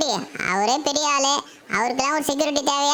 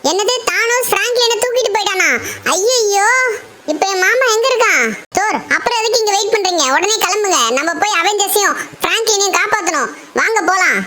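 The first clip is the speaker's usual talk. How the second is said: higher, louder alarmed cry; shocked panic; 4 semitones higher, 6 dB louder than usual. Acted. Shinchan, shocked at Franklin's kidnapping, cries out in panic. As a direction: panic and rush him out the door.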